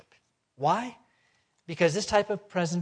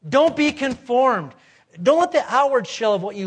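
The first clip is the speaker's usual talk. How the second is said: emphatic command; 7 semitones higher, 10 dB louder than usual. Shown as a demonstration. Preacher spelling out an imperative to the congregation, emphatic command. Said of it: "Conformed is an imperative".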